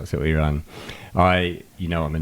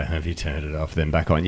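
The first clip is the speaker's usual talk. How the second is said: condescending. Retold or imitated.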